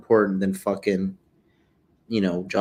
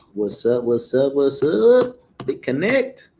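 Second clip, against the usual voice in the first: excited greeting; 3 semitones higher, 4 dB louder, slower than usual. Real, not acted. Greeting stream caller, building.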